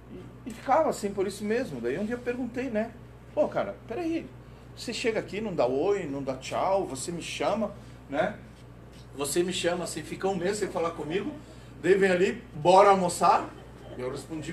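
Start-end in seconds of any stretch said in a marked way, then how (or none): 3.3-13.5 exasperated father. Retold or imitated. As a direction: protest at the son, half-laughing. Pai questiona o filho.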